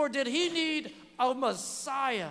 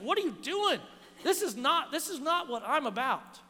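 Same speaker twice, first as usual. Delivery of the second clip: retold rebuke, pitched up at first; 2 semitones higher than usual. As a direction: mildly rebuke a follower, as if retelling it. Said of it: "stops him and rebukes him".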